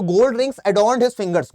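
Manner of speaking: each word of the sentence said very slowly; slow model sentence. Shown as a demonstration. Teacher slowly modeling the example sentence for students. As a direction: read it word by word for them to copy. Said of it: "इसको भी बोलो एक बार".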